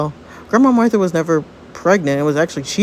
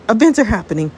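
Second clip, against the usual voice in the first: first, contained note of alarm; mildly agitated warning; rising alarm; 3 semitones higher than usual. Acted. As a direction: announce it urgently, slightly raised. Panic as time shifts.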